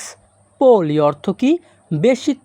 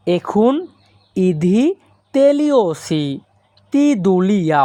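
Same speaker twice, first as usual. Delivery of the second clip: slow and clear. Shown as a demonstration. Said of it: "এই বাক্যের Greek ভাষা হবে".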